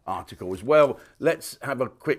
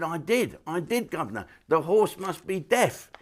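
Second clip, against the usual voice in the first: jockey's reply; 7 semitones higher than usual. Retold or imitated. Jockey pleads with trainer.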